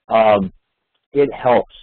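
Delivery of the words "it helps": HELPS set apart and leaned on; emphatic stress. Real, not acted. Presenter urging a best practice on trainees, stressed HELPS. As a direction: land firmly on "helps" after a pause. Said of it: "I stress the word it helps".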